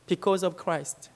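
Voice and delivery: very slow, each word laid down; slow, weighty quote. Retold or imitated. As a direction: lay the words down slowly and gravely. Quoting elderly missionary, slow. (천천히 무게 있게 또박또박)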